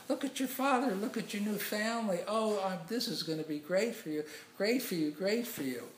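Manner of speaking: high, loud gushing delight; squeal-high, thrilled congratulations; excited kids. Retold or imitated. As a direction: imitate children jumping for joy. Children hug and jump around king.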